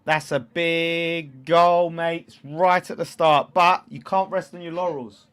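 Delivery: loud and high, first words dragged out slowly; hyped-up goal reaction. Real, not acted. Streamer shouting to chat about the early goal, hyped. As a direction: shout it to the room, still buzzing. Excited commentary after the goal.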